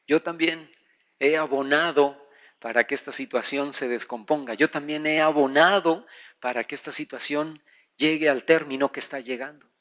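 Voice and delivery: low, subdued confession; broken, contrite. Acted. Husband admitting his share of the blame before God, contrite. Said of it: "tú te quebrantas y tú dices".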